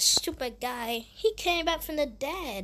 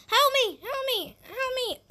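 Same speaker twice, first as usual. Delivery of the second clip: scared cry for help; 11 semitones higher, slower than usual. Acted. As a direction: cry out for rescue in mock panic. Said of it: "I'm scared".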